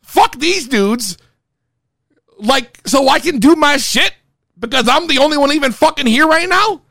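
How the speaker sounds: high, urgent pleading to the DJ; retold plea to the DJ, voice climbing. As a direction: beg the DJ to cut the intro. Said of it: "I'm pleading with the D J".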